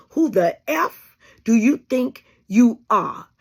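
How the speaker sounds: slow, pointed put-down; defiant stand against people who come back; defiant challenge. Pretend. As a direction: drag it out, daring them. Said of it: "start taking on the stand".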